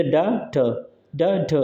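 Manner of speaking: ड, ठ as short separate beats; two unstressed syllables. Shown as a demonstration. Teacher showing a pyrrhic to students, ड, ठ both unstressed. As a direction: keep ड and ठ both short and light. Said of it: "unstressed रहेंगे".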